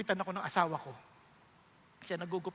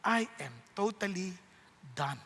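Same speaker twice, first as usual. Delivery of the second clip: quiet desperate prayer; 2 semitones lower, 7 dB quieter than usual. Retold or imitated. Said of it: "Tapos sabi ko".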